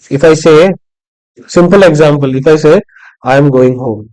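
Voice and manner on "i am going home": low-key, unemphasized statement; dead low tone. Shown as a demonstration. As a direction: say it evenly with no word stressed. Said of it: "it's a dead low, uh, tone sentence".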